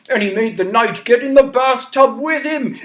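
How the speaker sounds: ordinary delivery, nothing marked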